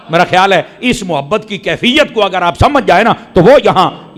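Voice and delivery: usual speaking voice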